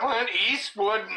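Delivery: high, laughing outburst; laughing disbelief. Real, not acted. Host getting the Clint Eastwood punchline, laughing in disbelief. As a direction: crack up while repeating the name.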